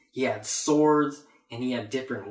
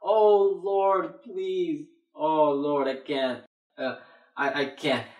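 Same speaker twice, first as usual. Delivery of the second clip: crying out to God. Acted. Sinner begging the Lord for mercy, mock crying out. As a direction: plead as a mock penitent. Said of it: "I'm crying unto God".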